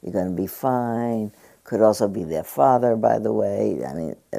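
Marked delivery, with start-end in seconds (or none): 0.0-1.3 comfortable soothing voice. Retold or imitated. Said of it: "soothed by a comfortable voice saying".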